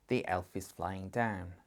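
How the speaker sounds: lightly happy, drawn-out sentence. Shown as a demonstration. Teacher models a sentence for parents, lightly happy. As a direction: say it slowly, with a touch of happiness. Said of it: "Say it in a happy voice".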